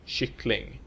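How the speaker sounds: "kyckling" with Swedish pitch accent two. Shown as a demonstration. Teacher showing the stressed final word, "kyckling" with accent two. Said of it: "with accent two".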